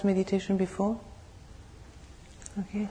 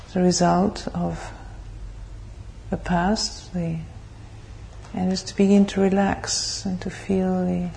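measured, even meditation guidance with long pauses; guided meditation; 5 dB louder than usual. Real, not acted. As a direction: lead the group calmly into stillness, phrase by phrase.

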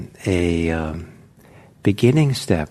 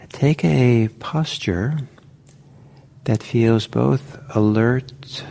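calm, unhurried meditation guidance; measured instructions with space to settle; guided meditation. Real, not acted. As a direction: gently guide them into posture, leaving long pauses. Guides listeners into meditation posture.

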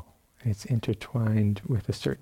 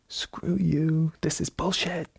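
much higher, exasperated mock rant; fed up outburst; 6 semitones higher, slower than usual. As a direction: throw it back at the teacher, fed up. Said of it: "he's just fed up".

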